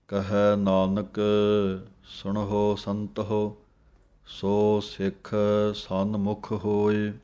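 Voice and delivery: scripture recitation. Shown as a demonstration. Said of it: "teacher recites the hymn line".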